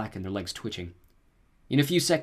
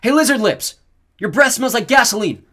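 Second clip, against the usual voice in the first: high, loud mocking shout; full-voiced jeering yell; taunting yell; 13 semitones higher, 13 dB louder than usual. A narrator's reading. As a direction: taunt the dragon to draw it off. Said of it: "yelled at the dragon".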